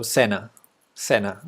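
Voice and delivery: "Sena" with a plain S, SEH-na; Spanish pronunciation. Shown as a demonstration. Streamer returning to first attempt at the name, Spanish pronunciation. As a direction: say "Sena" Spanish-style, open e. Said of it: "first was good".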